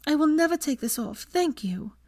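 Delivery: put-on young woman voice. Hermione voiced by narrator.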